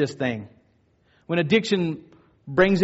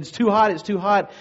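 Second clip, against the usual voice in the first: higher, lightly voiced upset child; mild retold protest, pitched up; upset little girl; 4 semitones higher than usual. Girl protests to mom about the bath, mildly upset. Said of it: "the little girl is getting upset".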